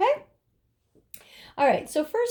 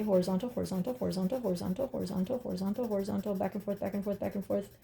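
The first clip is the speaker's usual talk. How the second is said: rhythmic murmuring; 2 semitones lower, 6 dB quieter, faster than usual. Real, not acted. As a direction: murmur it on a loop in time with the pencil strokes. Murmurs stroke directions while shading.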